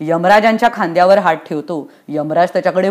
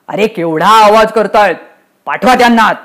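raised-voice grumble; irritated command; 4 dB louder than usual. Acted. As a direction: order them in with annoyance. Yamraj annoyed by the noise.

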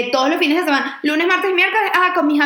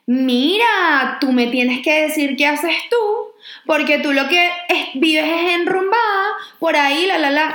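mocking the girl; 2 semitones higher, slower than usual. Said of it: "y me dice".

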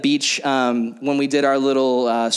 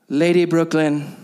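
slow, solemn King James delivery; mock formal prayer to wife; slower than usual. Speaker addressing wife Brooklyn in slow solemn prayer-speak. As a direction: pretend to beseech your wife like royalty. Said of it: "weird religious words with her".

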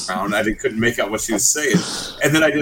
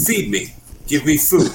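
higher mock demand to be fed; imitated friend's demand; 4 semitones higher than usual. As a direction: imitate a needy friend begging. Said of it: "he literally just goes".

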